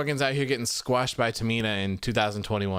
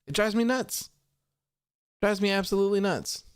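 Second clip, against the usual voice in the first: exasperated rant; 5 semitones higher than usual. Real, not acted.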